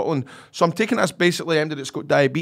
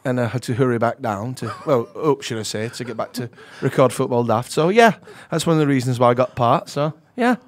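put-on Northern England accent; northern English accent. Shown as a demonstration. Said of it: "playing somewhere from up north in England".

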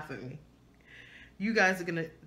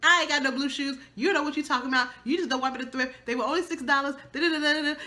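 higher, mock yell to her husband; retold shouting; 6 semitones higher, 4 dB louder, much faster than usual. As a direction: tell him off, loud and playful. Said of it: "I was shouting down my husband".

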